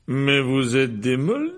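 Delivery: slow, lilting delighted exclamation. A narrator's reading. Mr Weasley meets Hermione's Muggle parents, delighted. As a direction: marvel at them, stretching the words. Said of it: "s'exclama Monsieur Weasley avec ravissement".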